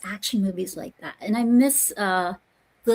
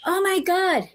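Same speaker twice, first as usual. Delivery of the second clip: high, mocking "oh my God"; a hammed-up gasp of shock; 9 semitones higher, slower than usual. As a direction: parody an overdramatic onlooker.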